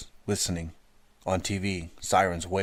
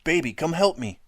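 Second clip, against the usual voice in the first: high, loud cry for help; boy calling his sister to hold the door; panicked yell; 10 semitones higher, 5 dB louder than usual. A narrator's reading. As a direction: call out in panic.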